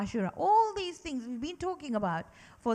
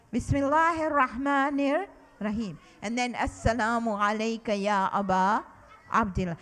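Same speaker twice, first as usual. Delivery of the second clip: a touch louder, leading the group; said loudly with class. Shown as a demonstration. Teacher asking children to say it loudly with her, a touch louder. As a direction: say it out for everyone to hear. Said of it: "say it loudly with me".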